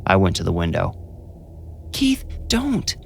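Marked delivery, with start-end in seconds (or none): 1.9-3.0 put-on high, soft pleading child voice; begging whisper. A narrator's reading. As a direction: beg him in a hushed voice. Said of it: "Jonah begged, still whispering".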